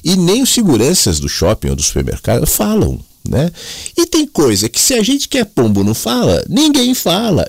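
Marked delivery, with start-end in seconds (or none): 4.0-7.5 put-on hammy Italian accent from Mooca, pitched way up. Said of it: "ele tinha um sotaque italianão, da Moca".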